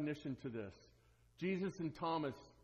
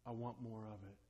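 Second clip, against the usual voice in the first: eager believer; 8 semitones lower, 10 dB quieter than usual. Retold or imitated. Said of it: "there are those who say".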